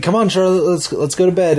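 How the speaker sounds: put-on wife calling child. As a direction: call the little girl in to bed.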